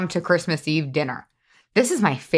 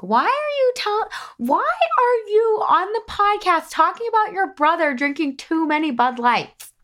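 much higher, scolding mom voice; imitating mom; 11 semitones higher than usual. Mom scolding her for podcast talk about brother, high imitated voice. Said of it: "I can already hear my mom being like".

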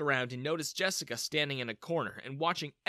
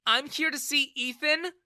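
high, louder curt reply; replied angrily; 12 semitones higher, 6 dB louder than usual. Acted. Daughter answers her father, angry. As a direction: answer him sharply and coldly. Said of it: "she replied angrily".

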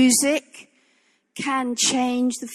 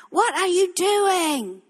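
slow challenge to God; 3 semitones higher, slower than usual. Retold or imitated. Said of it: "get up tomorrow morning and say".

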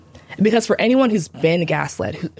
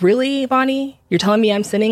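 higher, indignant retort; retold anger; 5 semitones higher than usual. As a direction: fire back at the friend in disbelief. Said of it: "I got so pissed".

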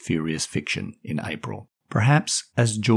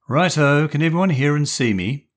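put-on lightly raised, brisk boyish leader; leader calling the meeting; 7 semitones higher, 5 dB louder than usual. Julian checking everyone can hear him, lightly voiced. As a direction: take charge of the call.

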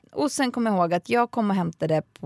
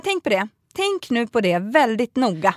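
condescending teacher; 4 semitones higher, 4 dB louder than usual. Retold or imitated. Teacher lecturing, retold. (nedlåtande pedagog, långsamt och högre)

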